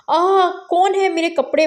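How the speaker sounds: jolted awake with a high cry; a sudden shocked yelp from sleep; startled cry as blanket is yanked away. Acted.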